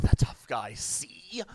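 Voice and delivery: a light hint of a thirties gangster, breathy; the tough guy talking out of the side of his mouth. Narrator playing the hard-boiled detective with a Tommy gun, lightly voiced gangster. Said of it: "hard-boiled lug nobody messes with".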